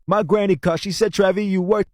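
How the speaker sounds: roomy, harsh recording before the cleanup; the vocal before the processing; muddy untreated vocal take; raw unprocessed vocal. Shown as a demonstration. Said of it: "we got it from this".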